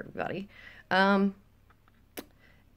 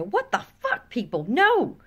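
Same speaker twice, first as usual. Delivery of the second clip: high-pitched outburst, ending on a loud NO; performed indignant outcry; exasperated lady; 5 semitones higher, 5 dB louder than usual. Acted. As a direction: protest in high exasperation, punching the final no. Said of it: "it's time for a lady to step forward and go".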